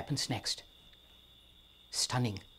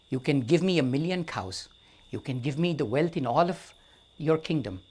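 disdainful and firm. Acted. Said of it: "disdainful and firm".

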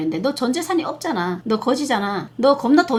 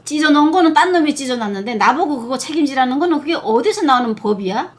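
ordinary talk, nothing marked

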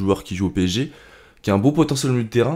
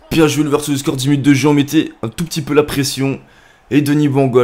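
raised, loud post-goal praise; excited goal commentary; 4 semitones higher, 6 dB louder than usual. Real, not acted. Gamer praising his scorer after the goal, excited commentary. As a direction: keep the celebration going, pitched up and punchy.

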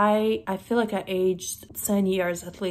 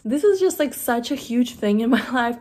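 excited; 3 semitones higher, 5 dB louder than usual. Real, not acted. Gushing about collecting rocks.

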